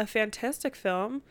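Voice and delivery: Midwestern vowels slipping into a fantastic film; Midwest accent. Real, not acted. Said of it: "my Midwest accent just came out".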